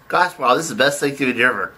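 talking through a mouthful of food; mouth full. Acted. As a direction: say it around a big bite. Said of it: "talk with your mouth full".

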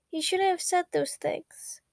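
whispered regret to a hurting friend. A narrator's reading. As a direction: breathe it out as a hushed confession. Sad visitor confides about Virgil.

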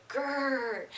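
soft playful bear growl; growl demo. Shown as a demonstration. Teacher showing kids at home the growl, soft playful growl. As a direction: show the kids a gentle growl. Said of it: "I want you to say".

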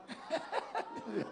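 soft chuckling laugh. Real, not acted. Pastor amused that Edu did not understand, laughing softly. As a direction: laugh quietly to yourself.

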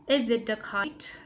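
"kite" with a lightly released t; light ending sound. Shown as a demonstration. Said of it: "Bật nhẹ ending sound".

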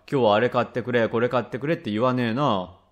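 dad agreeing, falling at the end; father's echo, lightly acted; lightly voiced father. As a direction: lightly play a plain-spoken father conceding the point.

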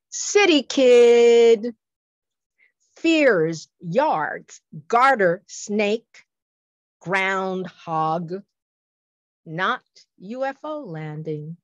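slow, spaced-out haiku reading, opening loud; slow poem recitation. Shown as a demonstration. Poet presents a sci-fi haiku to listeners, slow recitation. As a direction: recite it slowly, phrase by phrase, with long pauses. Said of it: "Here's a sci-fi coup".

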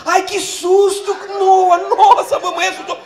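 high, loud, slow hammed-up fright; mock-frightened wife. Wife pretending to be scared by the toddler, loud and high. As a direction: overplay being scared.

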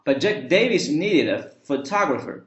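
"Davis" said "DAY-viss"; Davis with diphthong. Shown as a demonstration. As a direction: give "Davis" an "ay" vowel. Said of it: "双元音啊". (“Davis”第一个元音读成ei)

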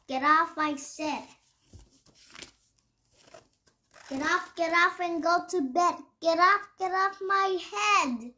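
put-on high, loud kid yelling; angry child shouting. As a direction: yell it like a furious little kid. Child fights off the babysitter.

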